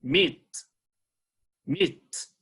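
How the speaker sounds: meet drawn out with a rising tone; slow, rising meet for the class; teacher leads meet for repetition; model word meet. Shown as a demonstration. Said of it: "let's say".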